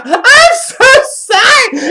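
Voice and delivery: high, loud, drawn-out mock wail; imitated laughing apology. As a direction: mimic a friend apologising through hysterical laughter. Acting out friend's laughing apology.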